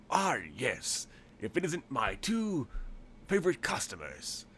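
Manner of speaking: lightly put-on Cockney shopkeeper, drawn out; hint of over-the-top Cockney salesman; Cockney-tinged tailor. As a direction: greet regulars in a mild Cockney lilt. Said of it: "he's really Cockney instead of".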